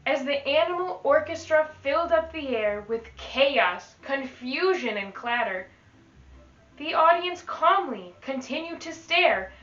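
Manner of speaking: put-on lively read-aloud to children; teacher reading a rhyming book to the class; storybook reading. Teacher reads picture book aloud.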